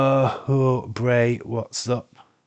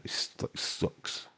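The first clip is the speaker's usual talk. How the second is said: whispered; 11 dB quieter, much slower than usual. Real, not acted. Moaning about hay fever.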